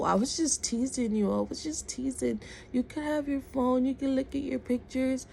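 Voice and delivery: imitating a man appeasing someone in tears; retold backpedalling. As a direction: back off quickly, voice lifted to soothe. Retold man backtracking when she cries.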